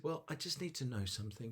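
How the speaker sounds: high little-snake voice, a touch anxious; worried little snake. Acted. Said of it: "this little snake looks incredibly".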